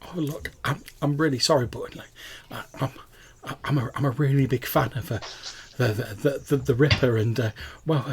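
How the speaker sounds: halting, stammered apology; really apologetic. Acted. Caught young fan apologises to club owner, halting and sheepish. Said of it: "she sounds really apologetic".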